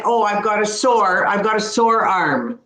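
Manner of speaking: "sore" with a long rounded o, like the Canadian "sorry"; same o as sorry. Shown as a demonstration. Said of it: "It's that same pronunciation".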